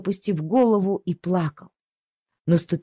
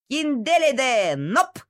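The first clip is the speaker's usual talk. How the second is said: dog calling; 5 semitones higher, slower than usual. Acted. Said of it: "закричала она".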